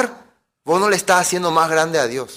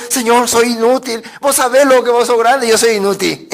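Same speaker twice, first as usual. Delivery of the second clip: oración de falsa humildad, algo más aguda; oración fingida; 3 semitones higher than usual. Acted. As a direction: imita un rezo exagerado ante Dios. Parodia una oración humilde a Dios. (súplica fingida en español)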